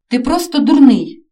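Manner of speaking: loud furious yell at the son; bellowing. A narrator's reading. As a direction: yell it out in rage. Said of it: "зарепетував тато". (тато репетує на сина)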